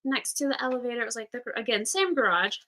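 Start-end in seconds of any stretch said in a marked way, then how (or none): 0.0-1.0 high, overly polite manager voice; polite request. Retold or imitated. Manager asking a sleeping man to move, high and polite. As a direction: sweetly ask him to move along. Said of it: "go up to a homeless man and was like".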